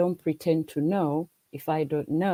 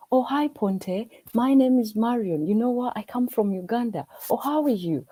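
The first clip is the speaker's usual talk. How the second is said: higher and louder, a bright friendly hello to a new neighbour; eager greeting; 6 semitones higher, 3 dB louder than usual. Retold or imitated. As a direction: play the cheerful newcomer introducing herself, pitched up and loud. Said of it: "be like".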